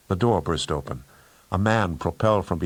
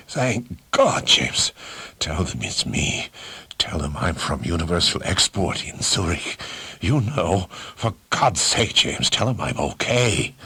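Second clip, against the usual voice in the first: hoarse, desperate plea, dropping to a whisper; a beaten man begging his friend. Acted. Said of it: "he said hoarsely".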